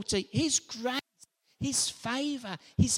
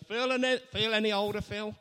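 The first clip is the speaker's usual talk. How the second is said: teasing uncle; faster than usual. Retold or imitated. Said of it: "My uncle always used to say to me".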